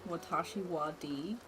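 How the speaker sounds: Japanese words with American vowels; tentative American-accented Japanese. Shown as a demonstration. Host attempting Japanese on request, American accent. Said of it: "speak Japanese with an American accent".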